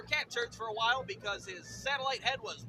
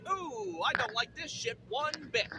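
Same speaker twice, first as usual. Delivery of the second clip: dogs' voice; 2 semitones higher, slower than usual. Acted. Dogs walking into the vet's office, lightly voiced reluctance. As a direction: let the uneasy dog speak, lightly put on. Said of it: "they were like".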